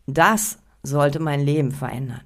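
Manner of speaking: DAS held alone, then a short break; stress on DAS. Shown as a demonstration. Coach repeats the opener for listeners, stress on DAS. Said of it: "die Betonung auf das Wort das gelegt".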